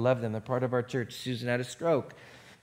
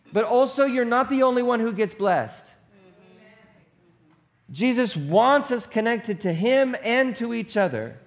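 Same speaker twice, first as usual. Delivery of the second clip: emphatic preaching; 5 semitones higher, 4 dB louder than usual. Real, not acted. Preaches the point and verse.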